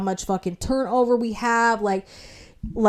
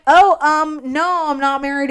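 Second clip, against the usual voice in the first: higher-pitched, put-on politeness; polite answer; 6 semitones higher, 3 dB louder than usual. Applicant answering the manager's question, politely hesitant. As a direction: go up high and accommodating, slightly hesitant.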